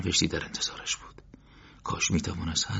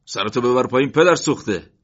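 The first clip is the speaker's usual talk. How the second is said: loud, higher furious snarl; angry curse; 6 semitones higher, 10 dB louder than usual. A narrator's reading. Thug cursing Morteza after hitting him, furious shout. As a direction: spit the insult at him.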